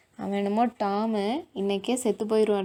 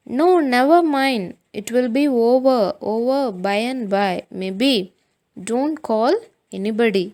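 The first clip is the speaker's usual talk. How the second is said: hammed-up suffering, louder, slow; boy faking illness to skip school, slow and loud; feigning pain; 2 semitones higher, 5 dB louder, much slower than usual. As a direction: plead slowly, milking the pain. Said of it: "Tom is acting".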